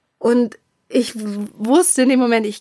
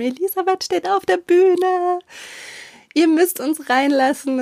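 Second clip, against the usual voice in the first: urgent pleading; 8 semitones higher than usual. Retold or imitated. Friends pleading at the theatre door.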